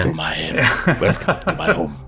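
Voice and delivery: put-on playful try at a Javier Bardem accent; Spanish-accented host, half laughing. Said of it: "Does he sound like Javier Bardem?".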